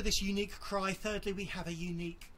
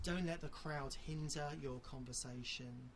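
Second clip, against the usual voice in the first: quiet plea; 4 semitones lower, 6 dB quieter than usual. Real, not acted. Preacher urging listeners not to fear the crowd, softly. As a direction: lean in and urge them gently.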